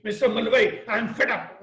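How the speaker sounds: put-on a light take on a fed-up young trainee; imitating a trainee. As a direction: play the complaining apprentice. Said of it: "And this is how he spoke".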